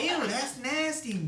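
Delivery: high, slow disgusted voice; grossed-out voice. Pretend. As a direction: sound grossed out. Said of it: "He's just gonna be like".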